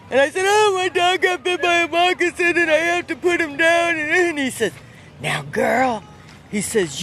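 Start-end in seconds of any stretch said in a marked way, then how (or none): 0.4-4.0 much higher, upset and pleading; a girl tearfully explaining. Retold or imitated. Her own upset reply retold. 5.2-6.0 put-on old Southern man voice. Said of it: "I have to speak like him".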